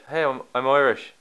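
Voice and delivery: trying out an Irish accent; quick sample of put-on Irish. Shown as a demonstration. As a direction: demonstrate a rough Irish accent. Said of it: "Wait, what is Irish?".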